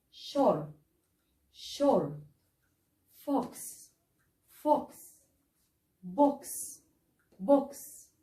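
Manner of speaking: each word with an open o sound. Shown as a demonstration. Teacher reading a word list for students, open o. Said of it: "تعالوا نقرا مع بعض كده الكلمات دي".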